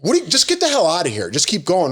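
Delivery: lightly imitated stern command; mock authoritative. Imitating the painted worker ordering them on, mock authoritative. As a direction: bark it half-seriously like a fed-up worker. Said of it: "trying to be, like, authoritative".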